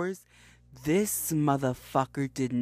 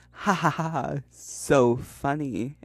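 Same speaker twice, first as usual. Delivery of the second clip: slow dry fake laugh; sarcastic ha ha; dry mocking ha ha; 4 dB louder, slower than usual. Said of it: "And she went".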